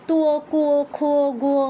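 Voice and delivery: তো, কো, খো, গো as two, kwo, khwo, gwo; sounded w glide. Shown as a demonstration. Teacher drilling the must-say glide, w audible in each syllable. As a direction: add a clear w to তো, কো, খো, গো. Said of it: "ওটা must উচ্চারণ করতে হবে".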